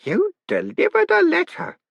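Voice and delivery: put-on slow, awed old man breath. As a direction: breathe it out in awe. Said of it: "breathed Groat".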